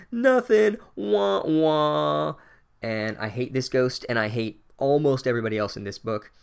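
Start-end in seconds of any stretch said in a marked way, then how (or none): 0.1-2.3 high, loud mocking "Nothing" sliding into wah wah; gleeful corny dad jeer; dorky dad taunt. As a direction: taunt like a sad trombone. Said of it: "he's like".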